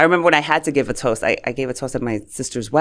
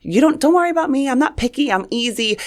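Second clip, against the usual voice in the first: much higher, carefree sing-song; breezy fun one; 10 semitones higher than usual. Retold or imitated. Younger sister reassuring family, breezy high carefree voice. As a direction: play it easygoing, brushing worry off. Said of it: "I'm like".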